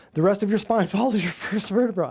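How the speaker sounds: breaking into a laugh mid-sentence; can't keep a straight face; laughing while saying it. Real, not acted. Mocking a chiropractor's claim to viewers, laughing. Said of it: "I can't even say it without laughing".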